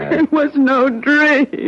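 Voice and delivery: slow, with a broken half-laugh; bitter laugh. Acted. Woman told she dreamed it, bitter laugh. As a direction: laugh in disbelief at being doubted. Woman insists on her story.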